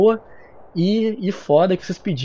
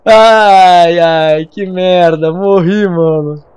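loud frustrated groan; 8 dB louder, much slower than usual. Real, not acted. Lamenta a morte.

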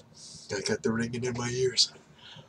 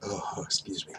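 burping; 5 dB quieter than usual. Real, not acted. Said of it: "Massive burp".

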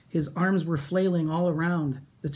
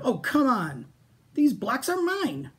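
high, slow whiny claim; whiny insisting; 9 semitones higher, slower than usual. Acted. Minosaur whines at the others about the blocks, high. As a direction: whine that they're his.

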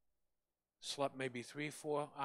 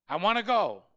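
firm, raised voice, stressing go; insistent old mother; 5 semitones higher, 10 dB louder than usual. Retold or imitated. Mother answering her son, insisting loudly. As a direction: she won't be talked out of it.

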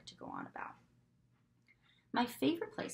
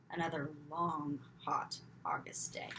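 weary sigh; 4 semitones lower, 4 dB quieter than usual. A narrator's reading. Repeated weary line.

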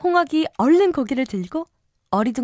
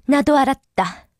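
stern queen; 3 semitones higher than usual. Acted. Queen orders beheading.

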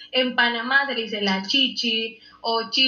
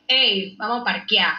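calling out to friends. Retold or imitated. Inviting friends to meet up, calling out casually. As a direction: toss it out like hailing your friends.

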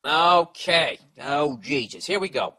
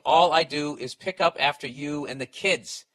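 retold wife's complaint; 6 dB louder, slower than usual. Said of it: "And saying".

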